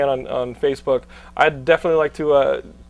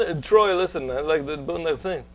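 Jean-Claude Van Damme impression; 3 dB quieter than usual. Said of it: "That's what the meeting would sound like".

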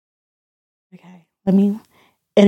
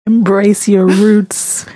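slow earnest; slower than usual. Real, not acted. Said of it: "Don't say it like that".

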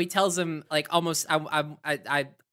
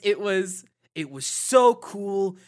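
very slow, laughing mock of a stilted dub; stilted ADR line; 3 dB louder, much slower than usual. Mocking the actor's ADR, slow and stilted. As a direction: drag it out like wooden dubbed dialogue. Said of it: "He just does not sound like a person".

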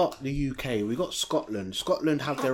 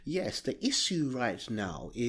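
softer mock royal accent; Queen's English; 3 semitones lower, 7 dB quieter than usual. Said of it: "who spoke like the Queen".

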